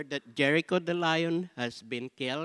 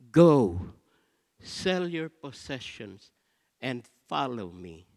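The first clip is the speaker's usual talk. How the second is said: loud command; 7 dB louder than usual. Retold or imitated. Jesus commands rich young man.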